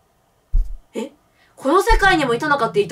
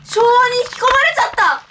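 trying not to laugh; 8 semitones higher than usual. Real, not acted. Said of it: "いや、笑うなって。".

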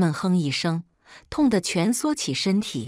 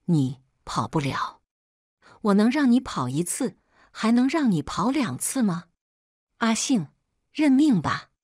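menacing taunt, pitch climbing higher as it goes; sinister sneer; 4 semitones higher than usual. A narrator's reading. Captor to the runaway caught on the ground, sinister sneer. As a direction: taunt them like trapped prey. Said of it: "他狞笑".

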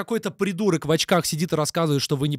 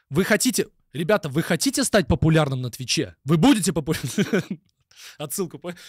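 mock sales pitch. Parodies a course-seller pitch.

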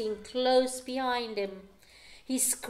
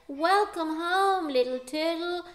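sighed welcome; 7 semitones higher, 5 dB louder than usual. A narrator's reading. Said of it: "sighed the sea".

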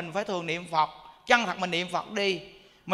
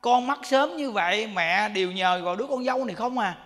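louder, higher pleading mother to her dead son; louder tearful-sounding plea to her son, lightly voiced; pleading old mother; 4 semitones higher, 5 dB louder than usual. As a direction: beg the son as a grieving mother. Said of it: "người mẹ cũng nói".

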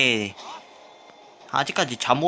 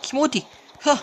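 slow, high hyped yell; drawn-out battle cry; 7 semitones higher, slower than usual. Real, not acted. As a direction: stretch the cry out. (길게 끄는 기합)

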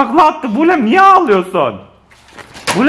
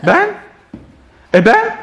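whiny pleading; 8 semitones higher than usual. Real, not acted. Dad begs for a turn.

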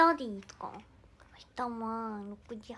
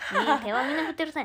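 louder and faster, pressing the point; emphatic fast; 3 semitones higher, 8 dB louder, much faster than usual. Real, not acted. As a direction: insist quickly and loudly. もう一度強く言い直す. (勢いよく強調して)

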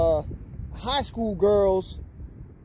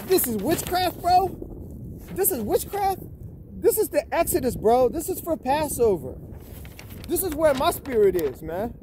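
pitched way up in outraged disbelief; can't believe they called it witchcraft, voice jumping high; indignant disbelief; 6 semitones higher than usual. Real, not acted.

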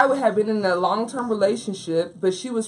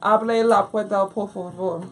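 put-on Spanish accent. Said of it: "do that again".

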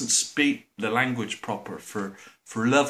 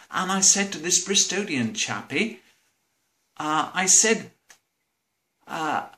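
student's reply; 3 semitones higher than usual. Retold or imitated. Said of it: "And he says".

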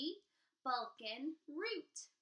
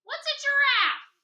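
loud, high baffled troll; puzzled troll; 14 semitones higher, 16 dB louder than usual. Acted. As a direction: ask it totally bewildered. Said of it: "the troll asked".

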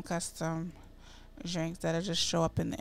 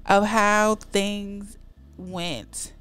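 loud, slow, disgusted complaint; indignant complaint; 5 dB louder, slower than usual. Pretend. Venting to mother about the betrayal, slow and loud. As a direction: drag out every word in disgust.

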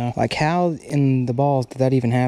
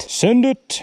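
hyped shout; 9 semitones higher, 3 dB louder than usual. Real, not acted. Hyped cast on fishing trip.

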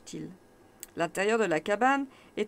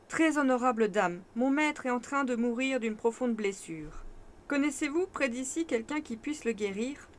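voix aimable. Acted. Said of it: "prend sa voix la plus aimable".

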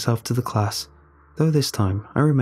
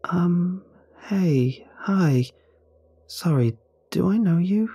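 higher, nervous schoolgirl voice; a startled girl caught off guard; startled teen girl; 8 semitones higher, slower than usual. A narrator's reading.

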